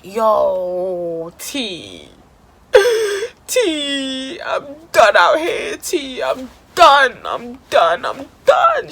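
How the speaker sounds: tearful, breaking voice calling her friend; retold crying. Crying to her friend T on FaceTime, breaking voice. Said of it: "So I'm crying to T".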